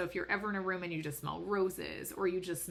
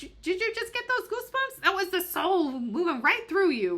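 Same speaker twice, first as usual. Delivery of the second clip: put-on loud, very high Long Island accent; Teresa Caputo; 13 semitones higher, 8 dB louder than usual. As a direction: belt out a hammed-up Long Island medium. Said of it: "should have a better Long Island medium".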